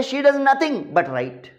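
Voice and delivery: very slow, "does" leaned on with a falling tune; emphasis on does. Shown as a demonstration. Teacher showing "does nothing but", slow emphatic "does". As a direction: drag it out and stress "does". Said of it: "emphasise दबाव डालकर की जाए".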